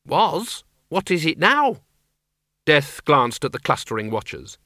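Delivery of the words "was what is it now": put-on high anxious old woman. Miss Flitworth asks.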